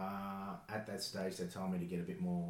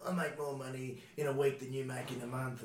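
put-on snobby teen; 7 semitones higher, 4 dB louder than usual. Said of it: "they'd be like".

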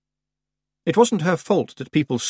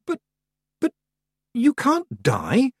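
bursting out; slower than usual. A narrator's reading. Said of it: "Tiffany burst out".

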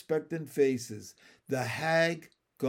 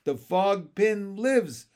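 high, slow chorus cry; mild scream, drawn out; 4 semitones higher, 4 dB louder, slower than usual. A narrator's reading. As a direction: cry it out like excited little froglets. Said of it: "screamed the froglets".

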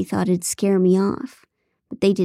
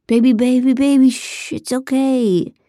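higher, louder soothing hush; shushing man; 5 semitones higher, 5 dB louder than usual. Acted. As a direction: hush her like a spooked child, slowing down. Phil hushing captive narrator.

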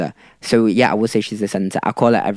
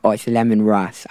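lightly imitated South African accent; light South African accent on a retold line. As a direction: quote her with a hint of South African. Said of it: "in the South African accent".

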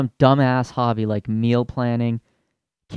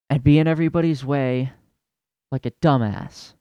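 raised voice at the moms; exasperated rant; 3 semitones higher than usual. Retold or imitated. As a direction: retail worker venting at the moms. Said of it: "and you're like".

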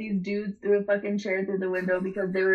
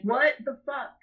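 sudden shock; 5 semitones higher than usual. Retold or imitated. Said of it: "and I was like".

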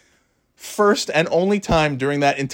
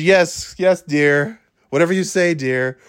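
meek henpecked husband; 5 semitones higher than usual. Retold or imitated. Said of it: "imitating me".

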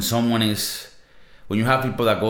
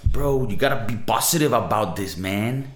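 essay voice; 2 semitones higher than usual. Retold or imitated. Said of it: "like, on, on an essay voice".

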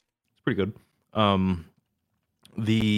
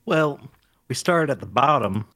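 Randy Moss; 2 semitones higher, 4 dB louder than usual. Acted. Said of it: "now you're doing Randy Moss".

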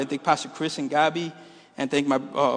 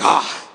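disappointed groan; 3 dB louder than usual. Retold or imitated. Kids' disappointed reaction, acted.

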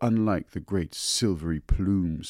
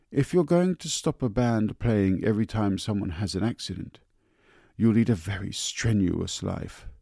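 annoyed; 3 semitones higher, 4 dB louder than usual. Acted. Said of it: "Joes began to be seriously annoyed".

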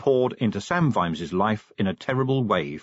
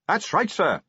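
high raised reply; pitched up to carry; calling back; 8 semitones higher than usual. A narrator's reading. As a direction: call back over the coach noise. Shouted exchange on moving coach.

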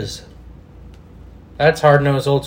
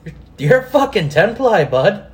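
mock Canadian jab, higher pitched; Canadian accent; 5 semitones higher than usual. Host repeating the insult, mock Canadian accent. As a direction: rib him like a Canadian pal, pitch up. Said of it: "Kenny, eh?".

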